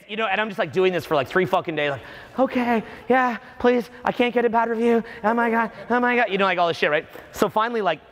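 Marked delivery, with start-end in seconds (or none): 2.4-6.3 high, mock-panicked begging; desperate pleading. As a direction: act out frantic appeasing, pitched up. Acted pleading to avoid bad review.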